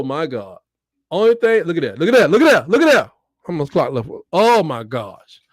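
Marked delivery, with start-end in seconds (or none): 1.1-3.1 agitated, loud repeated exclamation; excited reaction. Real, not acted. Fan reacting to the play on screen, excited. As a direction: pitch swinging up as the alarm builds.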